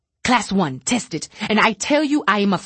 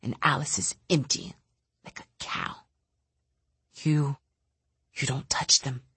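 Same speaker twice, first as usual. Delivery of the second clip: bitter rant. Acted. Bitter telepath lashing out quietly.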